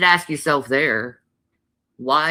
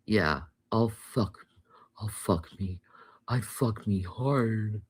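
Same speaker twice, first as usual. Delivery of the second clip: breathy hushed whisper, slowing down; creepy whisper; 7 dB quieter than usual. Retold or imitated. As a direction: murmur it like a creepy killer. Creepy whispered movie imitation.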